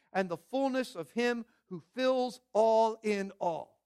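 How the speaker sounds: measured, formal reading of the passage; scripture reading. Acted. Pastor reading Ephesians to the congregation, measured and formal. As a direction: read the verses to the congregation with weight.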